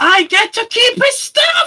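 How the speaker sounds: excited, high, slow voice. Over a dropped corpse, Spoon claims the loot, super excited Spoon voice. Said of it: "She sounds super excited".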